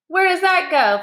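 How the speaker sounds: father curious about a strange ladder. A narrator's reading. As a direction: point and ask in wonder.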